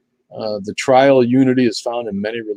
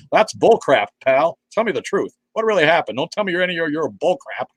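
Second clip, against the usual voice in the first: higher, mocking tough-cop voice; 7 semitones higher than usual. Mocking TV cops to viewers, in a higher hammed-up cop voice. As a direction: ham up a sanitized network TV cop. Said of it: "grizzled cops ... don't say".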